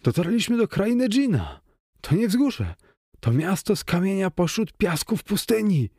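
high, far-off excited cry; high awe at the djinn city; awed excitement. Acted. (podniecony, wysoki okrzyk zachwytu)

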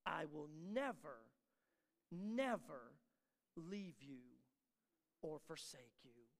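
soft, slow, intimate vow; hushed promise. Acted. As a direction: draw them in close with a near-whisper.

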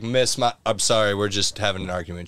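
calm, low-key retelling of an apology; retold chill apology. Diner apologizing to the next booth, calm. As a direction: keep it low and even, mildly apologetic. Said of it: "chill for a second".

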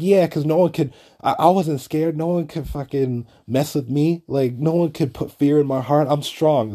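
mimicked adrenaline-fuelled boasting; imitated hopped-up bravado. Chick insisting she wasn't scared, imitated hopped-up bravado. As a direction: play her as too pumped up to listen. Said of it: "you're too hopped up on adrenaline".

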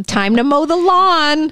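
put-on high singsong little-boy threat; creepy child voice. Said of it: "repeating Bloody Bobby line".

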